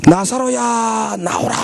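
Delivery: slow, drawn-out call to the dead; solemn summons, long first word; commanding call. Acted. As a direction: call him out of the tomb, stretched and strong. Jesus calling Lazarus out.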